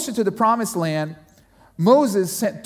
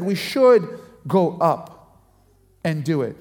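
slow, weighty insistence; emphatic; 4 semitones lower, slower than usual. Retold or imitated. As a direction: lean into each word, unshakable. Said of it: "He said it with emphasis".

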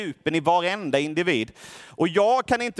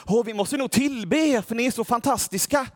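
higher, gushing admiration; awed crowd; 5 semitones higher than usual. Retold or imitated. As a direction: gush over them as if they were gods. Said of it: "och folket i staden bara".

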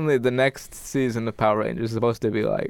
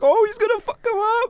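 much higher, kid-voiced gasp of awe; awed little kid. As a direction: play yourself as a starstruck little kid. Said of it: "I was like".

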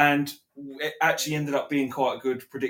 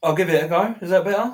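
clearer, louder mic sound; closer to mic; 5 semitones higher, 6 dB louder, faster than usual. Real, not acted. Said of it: "That's a bit clearer".

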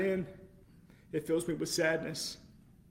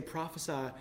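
smarmy mocking taunt; 5 dB quieter than usual. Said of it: "this smarmy arrogance".

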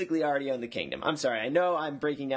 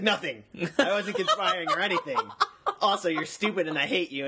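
laughing fake innocence; 5 semitones higher, faster than usual. Jamie plays innocent, then insults.

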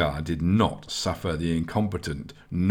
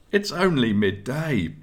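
morose; 7 semitones higher than usual. Acted. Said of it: "he observed morosely".

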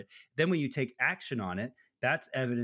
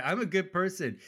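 mock self-righteous; 8 semitones higher than usual. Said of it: "That's right".

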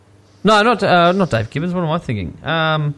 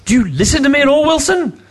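nagging adult voice; 12 semitones higher than usual. Pretend. Mock teacher nagging Wilson.

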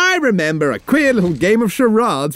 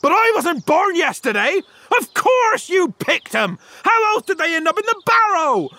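higher-pitched, scornful protest; indignant disbelief; 8 semitones higher than usual. Acted. Landowner challenging young Newton's excuse, indignant disbelief. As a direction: refuse to be fooled, pitch climbing.

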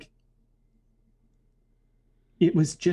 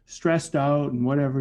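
suddenly conciliatory; 3 semitones higher than usual. Retold or imitated. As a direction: switch to placating the busboy at once. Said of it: "total tone just totally changed".

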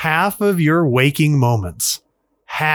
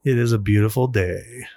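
whisper; 3 semitones lower than usual. Acted. Whispered echo of guest's line.

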